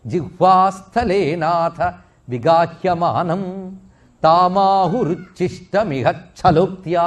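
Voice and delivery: very slow, measured chanting of a verse; solemn, unhurried Sanskrit sloka; Sanskrit verse recitation. Retold or imitated. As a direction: draw out each word as in temple recitation. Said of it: "ఒక మాట అంటాడు".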